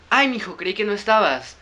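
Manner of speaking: just a hint of a granny; mostly normal voice standing in for granny; little old lady voice. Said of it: "pretendan que es voz de viejecita".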